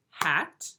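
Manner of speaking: "hat" said as one separate beat; one clapped syllable. Shown as a demonstration. Teacher clapping syllables for first graders, "hat" as one beat. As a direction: give "hat" a single firm beat. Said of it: "sometimes we clap syllables".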